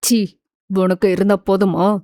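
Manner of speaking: low, stern male voice; angry rejection. Acted. Krishna coldly rejecting the woman who keeps calling. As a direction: voice the man, disgusted and firm.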